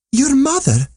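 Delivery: a very high, stunned, tearful question; tearful cry. Acted. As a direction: cry it out in disbelief, near tears. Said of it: "cried he, with tears in his eyes".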